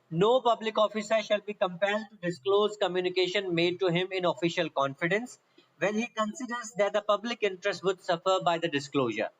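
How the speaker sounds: reading the law out word by word at dictation pace; slow, careful dictation of a legal clause; slow statute reading. Shown as a demonstration. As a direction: spell the section out slowly for students to copy. Reads the statute text aloud.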